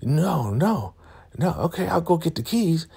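very high, fluttery mock voice; flustered and dainty; prissy old lady. Marva backing off, high prissy mock voice. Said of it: "she's like".

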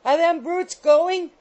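high, loud, drawn-out screech; shrill scream. A narrator's reading. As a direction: demand shrilly that the guests leave. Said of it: "screamed the shrill voice of Missus Rattle".

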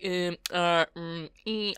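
halting mumbled filler sounds; imitated hesitation noises. Vlogger imagining herself speechless, halting filler noises. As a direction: act out having nothing to say. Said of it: "if I was just like".

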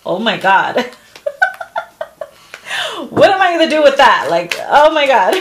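shocked. Retold or imitated. Reading tarot to a viewer, hammed-up shocked squeal. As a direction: squeal in mock alarm. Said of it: "you're shocked, and you're like".

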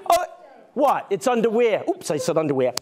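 bright, hammed-up showman patter; kids party magician. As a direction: play the goofy magician for kids.

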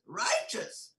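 Righteous whispered with a rise; whispered, wondering Righteous. Shown as a demonstration. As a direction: breathe Righteous as a stunned question. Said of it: "You know what I'm saying?".

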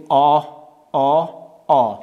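"آ" as a back rounded "aw"; long alef-madd vowel. Shown as a demonstration. Teacher models fourth alef, long back "آ". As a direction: hold each "آ" long and open at the back.

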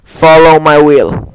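slow, solemn incantation; casting a spell. Pretend. The streamer casts a spell in the game, slow and solemn. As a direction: intone the spell slowly.

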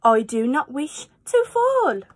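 slow, pleading little fish; lightly voiced worried fish. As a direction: beg not to be dropped. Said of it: "said the fish".

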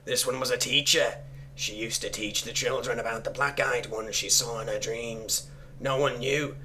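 measured, solemn reading of a dark note; story narration. Acted. Player reading cultist scribblings aloud, measured storytelling. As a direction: recite it deliberately, line by line.

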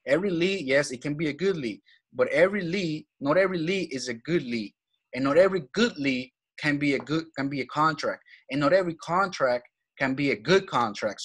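slow it down to explain, stressing "every" and "good"; said slowly. Shown as a demonstration. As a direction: step by step, with pauses between phrases. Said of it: "I'm gonna say it slowly".

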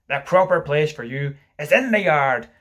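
loud, stern order; cried out. Acted. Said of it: "he cried".

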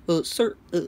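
put-on halting, half-hearted Indian accent; bad Indian accent. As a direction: attempt a clumsy Indian accent. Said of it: "it's the worst Indian accent".

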